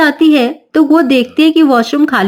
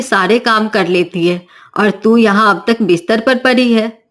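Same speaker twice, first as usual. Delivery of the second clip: scolding mother-in-law. Acted. Mother-in-law scolds late riser.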